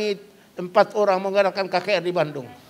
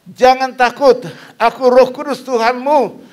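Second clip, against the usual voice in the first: voice from the mist; 4 semitones higher, 8 dB louder than usual. Acted. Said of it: "suara dari kabut mengatakan".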